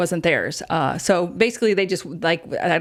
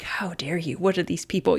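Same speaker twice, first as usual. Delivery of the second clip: mock outrage; 5 dB quieter than usual. Imagined indignant reaction to lowball.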